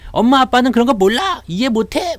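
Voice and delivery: high-pitched mock youngster's protest; complaining child. Kid telling parents they don't understand, high protesting voice. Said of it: "우리가 어릴 때는".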